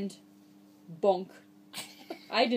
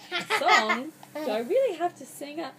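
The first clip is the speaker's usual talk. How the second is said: mock dismay; 4 semitones higher, 4 dB louder than usual. Reader dismayed by song.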